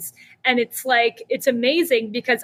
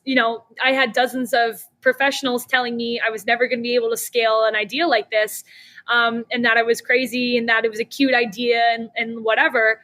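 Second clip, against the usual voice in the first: ordinary delivery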